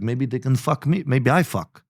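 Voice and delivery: imitated Russian accent, comic; heavy Russian accent. Quoting bartender friend Andre's offer, mock heavy Russian accent. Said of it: "a heavy Russian accent".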